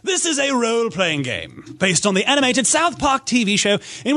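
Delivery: mock-solemn formal read of a ratings text; dramatic reading. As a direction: read it like a grave official announcement. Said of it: "dramatic reading of this".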